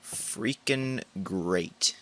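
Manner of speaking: slow, soft sarcastic drawl. Real, not acted. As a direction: drag out the sarcasm. Sarcastic after empty search.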